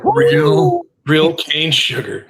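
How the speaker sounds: slow, punchy product pitch; mock ad pitch. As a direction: sell it like a commercial. Mock enthusiasm about the soda.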